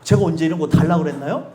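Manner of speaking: a low, sulky imitation of a thankless reply; mock indignant retort. Preacher mimics people refusing grace, sulky and low. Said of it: "요즘에 뭐라고 얘기해요?".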